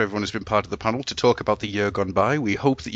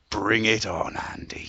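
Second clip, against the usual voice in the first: whisper; 3 semitones lower, slower than usual. Pretend. Mock threat sign-off.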